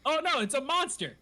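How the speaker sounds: retold monster alarm, comic; mock panic. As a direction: squeal it like a scared crook. Connor sees the henshin.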